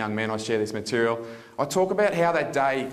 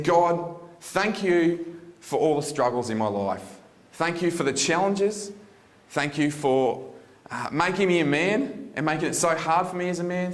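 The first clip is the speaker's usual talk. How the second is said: a higher, earnest prayer voice, lightly done; retold grateful prayer; 5 semitones higher than usual. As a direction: thank God as if standing there again. Retold heartfelt prayer to God.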